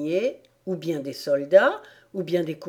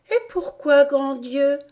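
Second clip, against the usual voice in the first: high-pitched shocked question; astonished; 7 semitones higher, 5 dB louder than usual. A narrator's reading. Alice asks rabbit why, high and astonished. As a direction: exclaim in startled disbelief.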